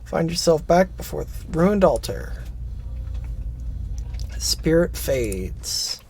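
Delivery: measured, solemn-style story reading; game text narration. Acted. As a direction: narrate the quest text, slowing on the last words. Reads game text aloud.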